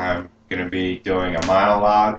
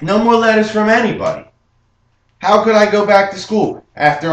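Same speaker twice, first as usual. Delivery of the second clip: higher, louder gangster storyteller voice, looking back with pride; Henry Hill monologue; 8 semitones higher, 6 dB louder than usual. Acted. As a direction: tell it like a young wise guy bragging about the old neighborhood. Performs Henry Hill monologue from Goodfellas.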